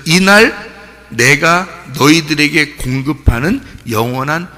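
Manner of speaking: slow, deliberate proclamation; preacher voicing a measured divine announcement; Jesus. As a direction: declare it solemnly, phrase by phrase. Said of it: "예수님이야".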